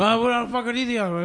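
blurted, hammed-up panic; flustered, heated. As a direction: imitate a friend getting rattled fast. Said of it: "you got heated quick".

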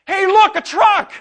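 put-on high, loud little boy spotting a truck; excited toddler. Father imitating his toddler son, excited high squeal. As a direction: squeal it out like a thrilled two-year-old. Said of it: "and he goes".

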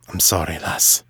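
low, subdued apology. Acted. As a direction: drop the pitch well down for a brief apology. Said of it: "added in a lower voice".

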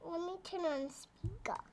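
soft unvoiced whisper. Real, not acted. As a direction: breathe it out in a whisper. Child whispers near microphone.

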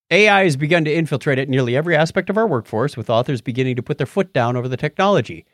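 reading an article aloud; steady reading-out voice; news read. Acted.

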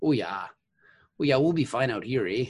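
put-on folksy Midwest accent. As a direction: talk like a friendly Midwesterner. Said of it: "I love your Midwest accent".

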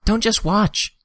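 urgent cry. A narrator's reading. Urging in danger.

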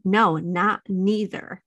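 slow childish protest, lightly voiced; imitating toddler. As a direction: drag it out like a stubborn little boy. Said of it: "That's how he says".

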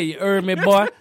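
lightly voiced New Orleans cousin, with a laugh; teasing imitation of family from back home. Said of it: "that's exactly how they talk".

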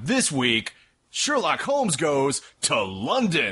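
drawn-out, lightly voiced promo announcer; mock TV promo. Parodying an ABC show's promo, mock announcer. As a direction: tease the episode like a network promo.

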